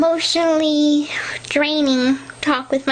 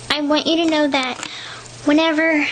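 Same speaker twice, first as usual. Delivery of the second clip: out of breath; faster than usual. Real, not acted. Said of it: "I have to catch my breath".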